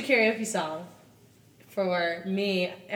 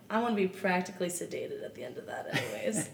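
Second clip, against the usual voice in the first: laughing whisper; faster than usual. Real, not acted. Joking about being sedated.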